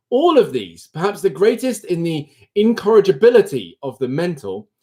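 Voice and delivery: measured, expressive book reading; reading aloud. Real, not acted. Streamer reading a philosophy book introduction, expressive reading aloud. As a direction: read it out to listeners with emphasis.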